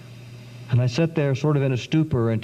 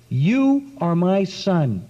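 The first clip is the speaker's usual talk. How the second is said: gentle voice; slower than usual. Retold or imitated. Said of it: "this gentle woman".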